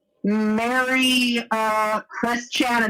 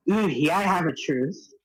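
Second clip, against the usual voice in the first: seductive voice; 2 semitones lower than usual. Pretend. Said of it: "trying my best to do a seductive voice".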